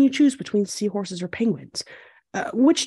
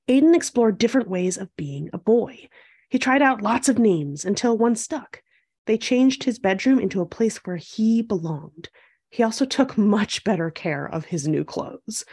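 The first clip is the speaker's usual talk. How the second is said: measured storybook read-aloud; picture-book narration. A narrator's reading. Host reading a picture book to young viewers, storytelling. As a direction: read it clearly to young children.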